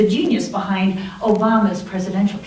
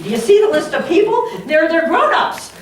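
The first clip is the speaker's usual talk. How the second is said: higher and fast, then slowing; agitated protest; 7 semitones higher, 3 dB louder than usual. Retold or imitated. Brené pleading with her friend, agitated and pitched up. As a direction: rush the question, then stretch "grown-ups".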